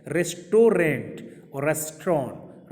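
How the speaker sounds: slowly, first as "res-to-rent", then as "res-tron"; रेस्टोरेंट with a final T, then रेस्टोरेंट without it; contrast of two restaurants. Shown as a demonstration. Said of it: "समझे कितना का फ़र्क है".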